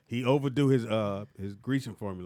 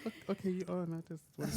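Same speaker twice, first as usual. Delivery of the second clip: stunned slow voice; 7 semitones higher, 10 dB quieter than usual. Retold or imitated. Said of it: "I'm like".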